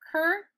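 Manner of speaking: curtain in two parts, "cur... tain"; wrong sounded-out curtain. Shown as a demonstration. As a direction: sound out curtain, rhyming the end with "rain". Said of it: "we don't say curtain".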